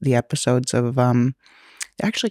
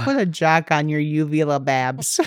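laughing. Real, not acted. Repeating the joke, laughing.

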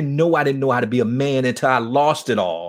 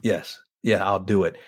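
tearful yes; 6 semitones lower, 4 dB quieter than usual. Retold or imitated. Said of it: "And he started crying".

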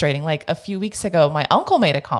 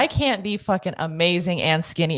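indignant comeback. Retold or imitated. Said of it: "I overheard and I'm like".

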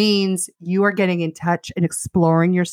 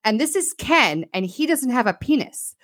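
lightly raised, chirpy Barbie impression; a hint of sunny doll cheer; perky Barbie greeting construction workers; mock Barbie voice; 4 semitones higher than usual. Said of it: "she's like".

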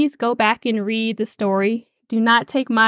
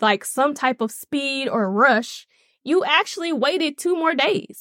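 upset sisters; 2 semitones higher than usual. Retold or imitated. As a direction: scold a friend who came too late. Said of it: "So they are upset with good reason".

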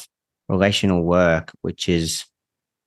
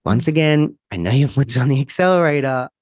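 a hint of tender reassurance; gentle self-talk; 3 semitones higher than usual. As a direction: coax yourself like a patient parent. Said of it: "the way that you spoke to that part of you".

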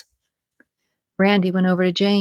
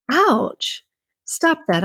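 pained yelp; 8 semitones higher, much slower than usual. Acted. Jane pinches his nipple.

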